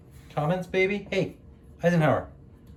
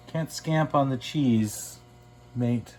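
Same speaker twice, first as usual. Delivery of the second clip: light mock Australian; much slower than usual. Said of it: "Do you say scrimp in Australia?".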